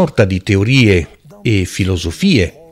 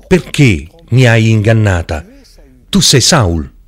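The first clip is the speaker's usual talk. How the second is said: scripture reading. Acted. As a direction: read the passage out to the congregation. Preacher reads scripture aloud.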